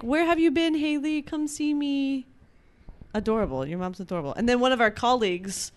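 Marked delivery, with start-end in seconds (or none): 0.0-2.3 high, drawn-out motherly pleading; doting mom impression. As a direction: coax in a hammed-up high mom voice. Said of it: "Yeah, she's like".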